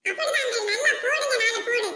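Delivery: laughing, egging on the beating; laughing cheer. Acted. Kid laughing and cheering uncle on: laughing shout. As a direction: giggle and shout encouragement.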